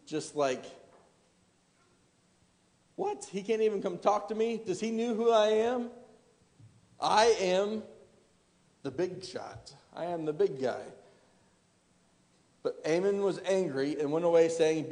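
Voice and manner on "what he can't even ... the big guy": mock outrage, pitch lifted at first, then dropping off; indignant commander. Preacher voicing the snubbed commander, mock indignant. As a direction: play the offended big shot who wasn't greeted. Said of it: "You're gonna be angry".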